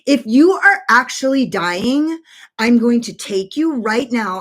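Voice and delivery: retold no-nonsense talking-to; retold stern ultimatum. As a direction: lay it out firmly for a panicking friend. Retold ultimatum to panicking friend.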